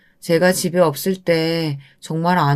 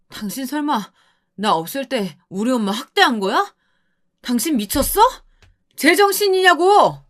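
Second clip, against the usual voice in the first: angry husband; 4 semitones higher than usual. Acted. Husband confronts abusive wife.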